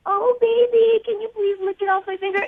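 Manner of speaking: mock her own voice as a freak; freakish baby voice. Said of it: "making me sound like a little freak".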